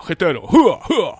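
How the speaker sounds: loud tough-guy throat-clearing and "hua" grunts; faked macho grunting. Closeted man insisting he is hetero, hammed-up macho grunts. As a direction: overdo the manliness with loud, jumping grunts. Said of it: "i tam zmieniać głos".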